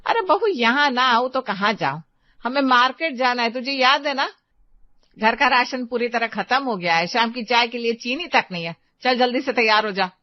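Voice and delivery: a cross mother-in-law tells off her daughter-in-law; scolding mother-in-law. Acted.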